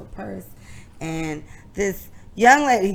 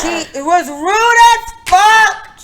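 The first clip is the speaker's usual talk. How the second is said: high, loud and slow, almost crying out; real exasperated yell; outraged shout; 11 semitones higher, 8 dB louder, much slower than usual. Real, not acted. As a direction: let the outrage burst out at full volume. Outraged at the seat-stealing woman.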